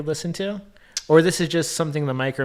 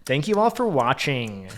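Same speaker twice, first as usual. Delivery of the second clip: mock narrator sign-off, over-enunciated; stilted script reading. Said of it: "as if they are reading from a script, but poorly".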